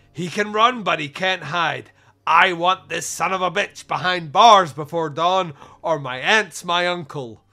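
loud, emphatic movie-cop declaration; hammed-up vow. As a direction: declaim the threat, slowing at the end. Performs film character's tough monologue.

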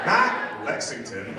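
mimicked country drawl on Lexington, slowly; mock a horse-country accent on Lexington; slow, exaggerated country Lexington; extra country accent. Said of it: "in your extra country, I wrote a horse here accent".

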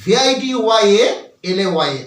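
slow, deliberate spelling of each letter; spelling out slowly. Shown as a demonstration. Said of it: "ইংরেজি বানানটা হবে". (ধীরে ধীরে বানান বলা)

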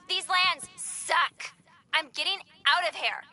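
angry outburst. Acted.

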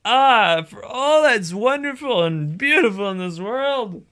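high, wailing cry of exasperation; exasperated outburst. Real, not acted. Player venting after a hated segment, exasperated. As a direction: wail it out dramatically to the heavens.

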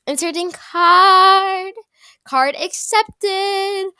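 high, slow machine voice; robot card reader. Pretend. Girl voicing the card machine as she pays, slow robot voice. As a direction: play the card machine announcing each step.

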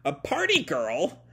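mildly shocked echo, questioning; a touch of comic astonishment. Retold or imitated. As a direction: repeat it in mock disbelief. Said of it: "turn for the comic shock".

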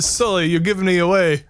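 mock-urgent telling off; mock dismay. Mock scolding of game partner.

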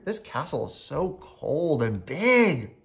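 slow, drawn-out shivery delivery; acted mild shiver. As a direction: stretch the words as if chilled. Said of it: "I said, shivering".

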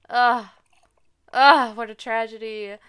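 theatrical groan; loud groan of despair. Real, not acted. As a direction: groan it like it's the end of the world. Lamenting missed festival.

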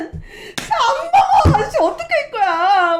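high, loud, laughing mock sob; mock crying wail. Exhausted mom sobbing at husband over a sleeping baby, hammed-up crying wail. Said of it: "막 이러면서 또 엄마 또 울어".

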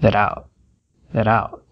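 that out dito "tharout"; T de that como R. Shown as a demonstration. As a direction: ligue that e out com R batido. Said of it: "tem som de r". (o T de that vira R)

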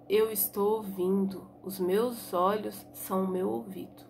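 low, soft hushed reply. Acted. Blind boy quietly explaining to Tonho how he hears. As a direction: keep it low and calm. Dalmo answers Tonho in forest.

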